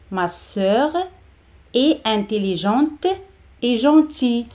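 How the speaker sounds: "Ma sœur", pause, "est intelligente", pause, "et gentille"; chunk by chunk. Shown as a demonstration. Model broken into chunks for learners.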